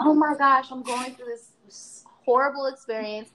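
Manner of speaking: hammed-up imitation of a coworker's fake upset; mock distress. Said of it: "so good at pretending".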